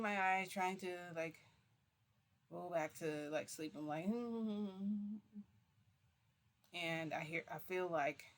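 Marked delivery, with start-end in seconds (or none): 4.1-5.2 long, slightly raised hum; drawn-out hum. Acted. Storyteller acting out trying to sleep, drawn-out hum. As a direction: hum to yourself, stretched out.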